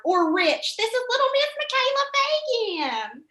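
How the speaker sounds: high, bright pageant host voice; introducing a little contestant onstage; pageant announcer. Retold or imitated. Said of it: "whatever lady was introducing me".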